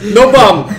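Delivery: high, loud mock yell of a clumsy alien; mock shouting. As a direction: bark it out high and loud, hammed up. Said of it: "He's like".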